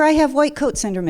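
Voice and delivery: high, mocking repeat of the diagnosis; incredulous sarcasm; sarcastic disbelief. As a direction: scoff at the doctors.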